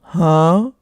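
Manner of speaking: loud disbelieving huh; shocked huh. Real, not acted. Told to push her own car, loud shocked huh. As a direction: blurt it out in disbelief.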